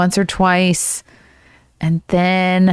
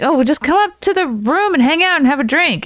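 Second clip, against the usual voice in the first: retold casual invitation; 9 semitones higher than usual. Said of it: "he was like".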